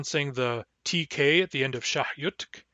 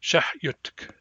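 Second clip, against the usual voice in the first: fluent speed. Shown as a demonstration. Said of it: "At fluent speed".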